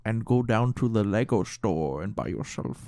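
high, slow theme-park announcer; hammed-up ride attendant spiel; mock announcer voice.

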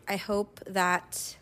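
hoarse from being sick. Real, not acted. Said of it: "you can still hear it in my voice".

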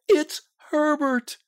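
put-on high, drawn-out cry of an old woman; screamed. A narrator's reading. Mother sure her son is knocking, drawn-out scream. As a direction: stretch it into a slow, high scream. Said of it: "she screamed".

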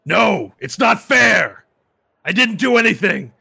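high, loud whining cry of unfairness; whiny protest. Acted. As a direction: wail it like a caught bully. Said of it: "Ventro ... goes".

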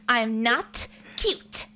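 slow, deadpan, indignant denial; prim and offended. Retold or imitated. Neville insisting to Spencer, slow and prim. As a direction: draw it out like a small offended genius. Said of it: "he says it like that".

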